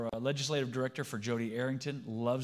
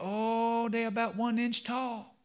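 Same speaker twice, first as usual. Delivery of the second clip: very high, joking, put-on Cajun accent; 10 semitones higher than usual. Telling a joke about Thibodeau and Boudreau, voicing Thibodeau: Cajun accent. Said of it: "Now I'm going to start talking like a Cajun".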